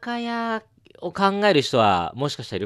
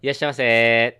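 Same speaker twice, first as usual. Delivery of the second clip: cheerful convenience store welcome; shop clerk greeting; 4 dB louder than usual. Shown as a demonstration. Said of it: "じゃあ行きますよ".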